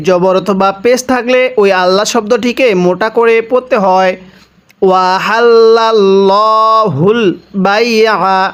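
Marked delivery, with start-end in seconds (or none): 4.8-8.5 very slow chant of আহাল্লাল্লাহুল বাইআ; tajweed recitation; Quran recitation. Shown as a demonstration. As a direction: draw it out in tajweed style. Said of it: "কিভাবে পড়ব?".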